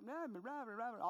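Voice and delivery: a hint of droning trombone-like teacher; Charlie Brown teacher. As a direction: lightly mimic the Charlie Brown teacher's drone. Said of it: "I like that Charlie Brown teacher".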